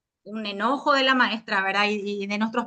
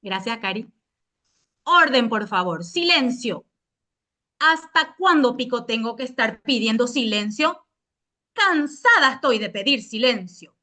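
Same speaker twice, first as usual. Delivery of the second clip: curt authoritarian teacher. Pretend. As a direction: scold the class, clipped and firm. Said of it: "léase con tono cortante y autoritario".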